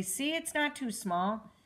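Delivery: proud and pleased; happily. Acted. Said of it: "Caillou said happily".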